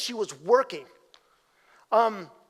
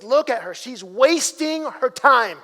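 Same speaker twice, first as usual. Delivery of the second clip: indignant Martha; 5 dB louder, slower than usual. Retold or imitated. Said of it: "Martha says".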